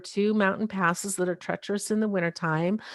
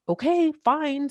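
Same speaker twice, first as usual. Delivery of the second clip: much higher, slow, resigned okay fine; giving in; 8 semitones higher than usual. Retold or imitated. Wife forced to decide today, giving in slowly. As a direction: surrender with a sick feeling. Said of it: "it's like".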